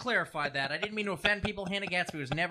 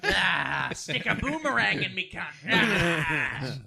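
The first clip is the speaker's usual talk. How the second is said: put-on Aussie accent; 5 dB louder, slower than usual. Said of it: "That's not a New Zealand accent".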